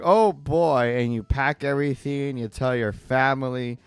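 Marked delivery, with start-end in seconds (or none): 0.0-1.0 put-on high, loud "Oh, boy"; playfully excited wife; mock thrilled. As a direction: gush like a delighted wife. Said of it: "You're like".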